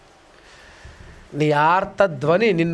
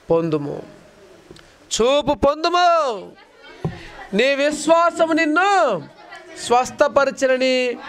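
solemn command; 5 semitones higher, slower than usual. Acted. Jesus's words voiced slowly.

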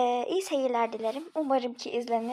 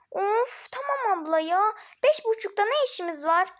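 put-on whiny child; 5 semitones higher than usual.

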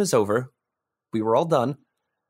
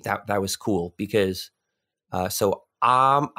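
halting stutter on fillers; 3 semitones lower, slower than usual. Real, not acted. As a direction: stumble over the start. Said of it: "I'm stuttering".

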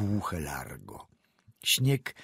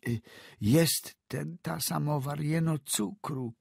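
put-on higher, hesitant old woman's voice; old peasant woman; 7 semitones higher than usual. A narrator's reading. Frightened old woman answering the doctor, stammering.

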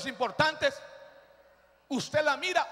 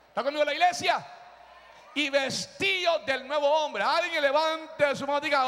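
rousing preaching. Real, not acted. Preacher to those who are free, rousing them. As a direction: build to a war cry. Rallies congregation.

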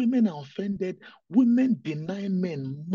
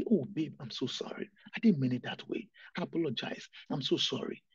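soft apology; 4 semitones lower, 5 dB quieter than usual. Acted. Acted spouse apologizing to partner.

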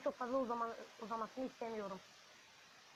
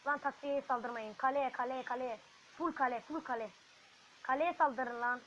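loud, urgent yelling at the troops; real frustrated shouts; shouting orders; 6 dB louder than usual. Real, not acted. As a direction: bark commands to attack the castle.

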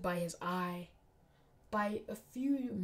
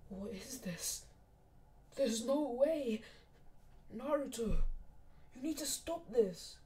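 hushed disbelief rising to higher-pitched pleading; horrified; 4 semitones higher, slower than usual. Acted. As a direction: plead in shock for it to stop. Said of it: "Sasuke and Sakura were horrified".

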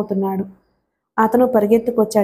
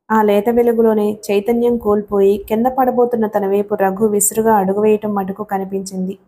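plain reading voice

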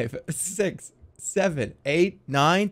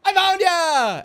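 high, loud, drawn-out mock triumph; playful discovery; 13 semitones higher, 6 dB louder, much slower than usual. Seeker finding the hiding child, playful high shout. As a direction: pounce with a gleeful sing-song cry. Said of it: "you gotta start like this".

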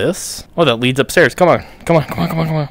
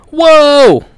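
high, loud amazed gasp of a whoa; 13 semitones higher, 7 dB louder than usual. Real, not acted. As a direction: blown away by what just happened. Amazed at the launch.

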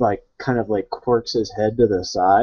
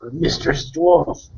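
slow, higher Mistress Dwarf; in-character address; 4 semitones higher, slower than usual. Acted. Warrior priest addressing the dwarf, slow in-character voice. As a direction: draw out Mistress Dwarf, pitched up.

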